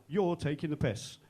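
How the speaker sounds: slow, drawn-out "You're taking the piss"; slow mock accusation. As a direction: lean slowly on "You're" in mock outrage. Repeats mock complaint, insisting.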